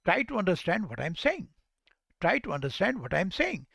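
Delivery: marked up-and-down tune, peaking on "saying"; model intonation. Shown as a demonstration. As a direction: lilt through "understand" and lift "saying" sharply. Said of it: "इसी intonation के साथ में आपने बोलना है".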